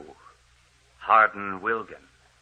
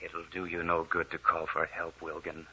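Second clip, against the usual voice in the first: menacing ghost. Acted.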